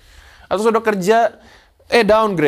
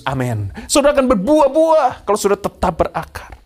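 rising preaching shout; 3 semitones higher, 5 dB louder than usual. Real, not acted. Preacher builds to climax.

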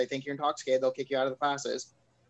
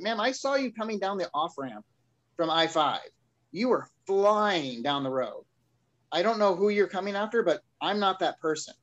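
mildly indignant, stretching the key words; retold indignant protest; 4 semitones higher than usual. Driver disputing the officer's speeding claim, mildly indignant. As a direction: push back at an accusation, lightly acted.

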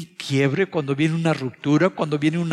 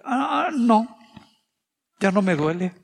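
mock high denial; 8 semitones higher than usual. Pretending pain gone after scolding.

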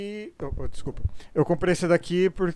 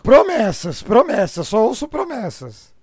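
put-on loud, rough old smoker complaining; smoker's voice; 8 dB louder, slower than usual. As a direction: boom it out like a chain smoker. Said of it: "E com essa voz de fumante?".

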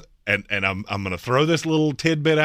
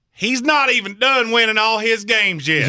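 mock exasperation; 10 semitones higher, 4 dB louder than usual. Real, not acted. Mocking Saban's endless winning.

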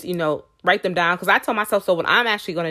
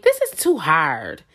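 lower, slow, heavy this is too hard; defeated sigh; 5 semitones lower, slower than usual. Shown as a demonstration. Vlogger mimicking negative self-talk, lower and slow. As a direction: drag it out like you're worn down. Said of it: "instead of saying".

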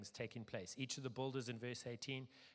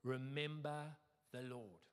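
slow, lightly Scottish declaration; slow proclamation, touch of Scottish; Scottish accent; slower than usual. Acted. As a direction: draw it out solemnly with a hint of Scottish accent. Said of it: "This is the Scottish accent bit".

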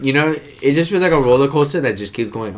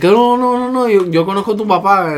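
high, louder imitated pleading; protesting stranger; 9 semitones higher, 4 dB louder than usual. Man imitating the stranger reassuring a yelling child, high protest. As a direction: hurriedly talk the kid down, pitched up.

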